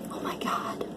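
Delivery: barely breathed, stunned whisper; awed whisper. Real, not acted. Reader stunned by a card, soft breathless whisper. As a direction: let the beauty take your breath.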